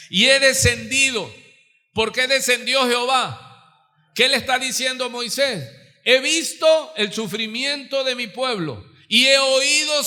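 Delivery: preaching at full force. Real, not acted. Predica con fuerza creciente.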